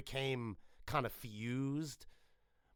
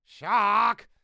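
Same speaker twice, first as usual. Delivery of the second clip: calling out; 4 semitones higher, 11 dB louder than usual. Acted. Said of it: "It's like".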